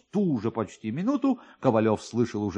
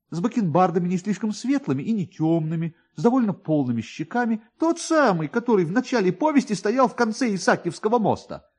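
plain reading voice

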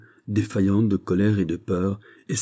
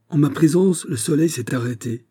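high-pitched, louder royal outrage; furious exclamation; 7 semitones higher, 3 dB louder than usual. A narrator's reading. King to the ambassador over the halted sun, furious. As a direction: cry out in offended fury, starting high. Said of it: "s'écria le roi furieux".

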